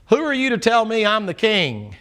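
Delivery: indignant king. Acted. King Uzziah challenging the priests, indignant. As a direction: demand it like a king insulted.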